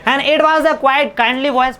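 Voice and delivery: slow, careful English reading; slow reading aloud. Shown as a demonstration. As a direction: read each word out slowly for the class. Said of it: "reading the text aloud".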